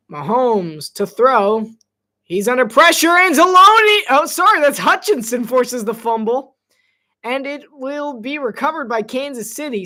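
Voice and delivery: rising to a loud broadcast call as the pressure hits; building play-by-play, loud at the strip sack; excited play-by-play. Acted. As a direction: call the sack like a live announcer.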